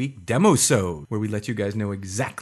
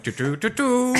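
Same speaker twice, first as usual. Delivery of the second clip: robot beeping; 12 semitones higher than usual. Retold or imitated. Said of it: "There's a Roomba that went".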